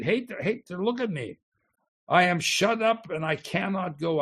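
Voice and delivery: high, plaintive lament, half broken; despairing plea to God. Acted. Preacher acting the psalmist accusing God, plaintive. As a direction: cry out to God as one hated and shut in. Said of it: "He's talking to God".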